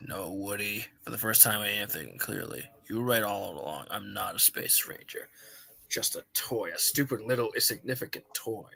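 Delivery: despondent low voice. Acted. Buzz, despondent, low and soft.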